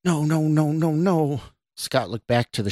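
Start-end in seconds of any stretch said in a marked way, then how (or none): 0.0-1.4 high, panicky string of refusals; horrified denial. A narrator's reading. Scott sees what he has done, horrified. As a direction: plead against what is true, pitched high.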